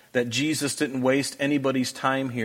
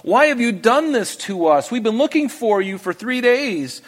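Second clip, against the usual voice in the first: a hint of a worried mother, higher pitch; mother's anxious question; 7 semitones higher than usual. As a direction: lightly voice Mary's anxious plea. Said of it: "his mother said to him".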